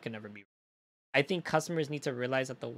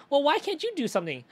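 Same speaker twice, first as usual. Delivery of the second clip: whiny customer voice; 11 semitones higher, 4 dB louder than usual. Retold or imitated. Mimicking a demanding customer.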